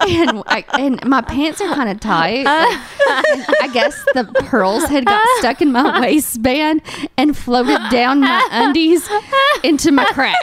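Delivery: high, slow, helpless giggling delivery; talking through laughter. Real, not acted. Storyteller revealing the pearl mishap to friends, laughing helplessly. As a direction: struggle to get the words out while cracking up. Cracks up at her own punchline.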